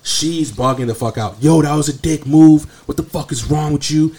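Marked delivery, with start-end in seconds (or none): 1.4-4.1 a touch higher, imitating the ranting mom; mock angry rant. Dugout mom keeps yelling at the third baseman, mock angry. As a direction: replay her going off, half-hearted.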